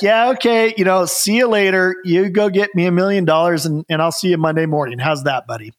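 sarcastic brush-off. Retold or imitated. Sarcastic brush-off to job seeker.

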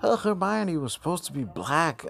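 high-pitched mock author voice; put-on high voice for the author; mocking author impression. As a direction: quote her in a mocking high voice. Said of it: "she was like".

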